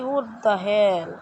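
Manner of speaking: stretched surprise. Real, not acted. Drawn-out reaction in game.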